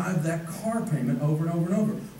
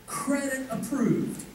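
toy's robotic voice; 5 semitones higher, much slower than usual. Retold or imitated. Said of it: "Listen to this".

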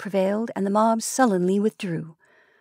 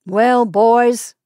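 calling out; 3 semitones higher, 8 dB louder than usual. A narrator's reading. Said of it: "said the messenger".

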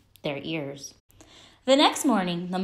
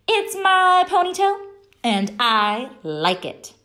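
put-on defiant little girl; 9 semitones higher, 5 dB louder than usual. A narrator's reading. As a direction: stand up to the bullies in a squeaky kid voice. Stephanie defiant to kids.

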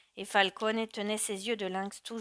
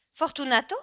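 higher, louder questioning repeat; mother's startled echo; 6 semitones higher, 8 dB louder than usual. A narrator's reading. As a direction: echo the name as a startled mother, pitch rising. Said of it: "répéta Giuseppa". (écho surpris de la mère, plus aigu)

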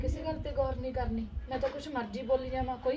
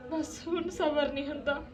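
daughter-in-law sobs out her grief; crying outburst; 4 semitones higher, 4 dB louder than usual. Acted. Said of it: "ਮਾੜੀ ਜਿਹੀ ਗੱਲ ਤੋਂ ਰੋਣ ਲੱਗ ਜਾਨੀ।".

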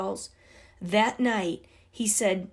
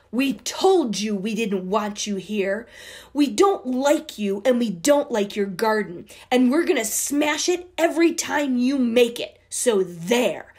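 taunting bullies; 3 dB louder than usual. Acted.

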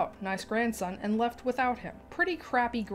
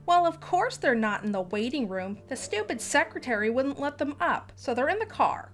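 entitled mother; 4 semitones higher than usual. Acted. Entitled mother voiced in story.

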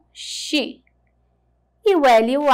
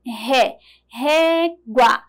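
Ré and régua with the accented ré hit hard; teacher showing the strong sound of ré in régua; stressed first syllable; much slower than usual. Shown as a demonstration. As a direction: lean on the ré of régua. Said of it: "tem o som mais forte".

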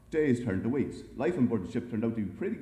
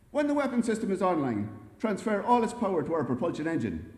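higher, firm commander's order; confident order; 7 semitones higher, 3 dB louder than usual. A narrator's reading. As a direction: give the computer a commanding order. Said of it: "he ordered the ship's computer".

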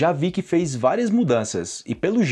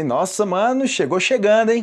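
impressed praise; 6 semitones higher, 3 dB louder than usual. Acted. The crowd admiring the new bike.

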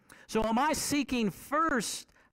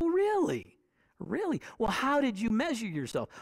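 mom's amused reply; 3 semitones higher than usual. Retold or imitated. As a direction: play the mom humoring her boy. Mom answers boy in story.

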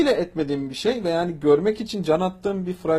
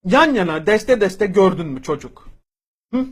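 angry rant. Real, not acted. Ranting at a teen commenter.

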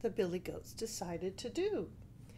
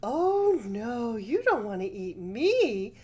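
put-on baby goat voice; 3 semitones higher, 6 dB louder than usual. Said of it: "said the baby Billy Goat".

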